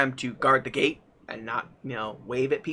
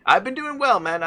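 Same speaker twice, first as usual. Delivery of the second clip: high playful voice; 7 semitones higher, 3 dB louder than usual. Pretend. Echoing the earlier quote.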